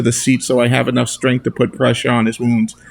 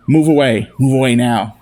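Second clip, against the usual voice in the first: commanding shout. Acted. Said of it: "the voice fills the car".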